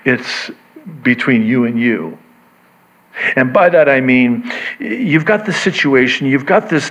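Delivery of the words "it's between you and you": normal talking voice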